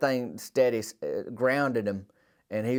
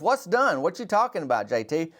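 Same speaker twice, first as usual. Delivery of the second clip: puzzled; 3 semitones higher than usual. Retold or imitated. Friend demanding to know.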